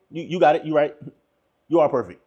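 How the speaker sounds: low, understated sarcastic agreement. Acted. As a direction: concede it with dry sarcasm. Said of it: "In a sarcastic way".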